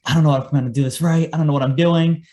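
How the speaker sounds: a touch of rushed panic; retold freaking out. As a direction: recount a flustered moment of self-doubt. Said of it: "I was freaking out".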